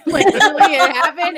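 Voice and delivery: high, loud, talking through laughter; laughing. Real, not acted. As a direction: laugh as you say it. Laughing while recounting own story.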